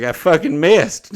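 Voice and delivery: imitating a furious miss; angry. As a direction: act out his rage at missing. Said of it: "He's so pissed".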